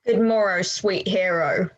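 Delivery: sick tune. Acted. Beatrice greeting her cousin while unwell, in a sick tune. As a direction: greet as if feeling poorly. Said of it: "Do you speak in the sick tune?".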